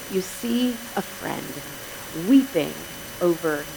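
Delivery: quiet grief, pausing between words; grieving. Retold or imitated. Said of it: "and weeping".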